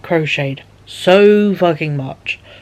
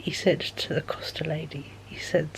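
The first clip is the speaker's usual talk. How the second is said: whispering; 13 dB quieter than usual. Real, not acted. Aside about the Costa lady.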